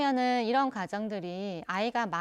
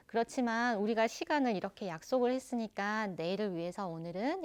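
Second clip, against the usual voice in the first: firm yet warm. Shown as a demonstration. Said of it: "단호하고 따뜻하게".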